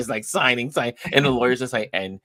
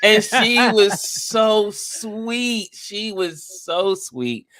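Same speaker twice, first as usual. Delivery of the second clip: laughing fondly; 9 semitones higher, 4 dB louder, much slower than usual. Real, not acted. Laughing fondly about buyer.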